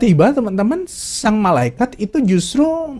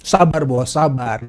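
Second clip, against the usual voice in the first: calm; slower than usual. Retold or imitated. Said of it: "dengan tenang menjawab".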